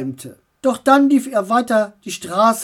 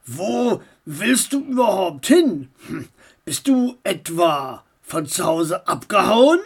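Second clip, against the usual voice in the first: driver voice. Acted. Driver voice again.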